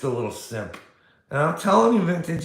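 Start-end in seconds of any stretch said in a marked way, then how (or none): 1.3-2.4 higher, louder burst; emphatic shout. Real, not acted. Warning Vintage about these people, emphatic shout.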